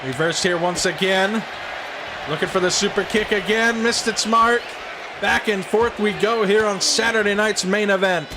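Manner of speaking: wrestling announcer call; play-by-play commentary. Acted. Plays the commentator.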